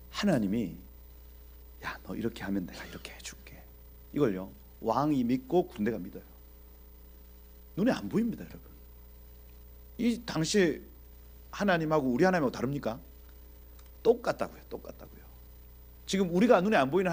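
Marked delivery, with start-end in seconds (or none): 1.8-3.6 whispered promise, breath only; hushed voice of God. Acted. Preacher whispering God's promise to David. 14.7-15.2 똑같다고요 whispered, breath only, much softer; whispered echo. Real, not acted. Preacher whispering 똑같다고요 back to the congregation. Repeated point, then whispered.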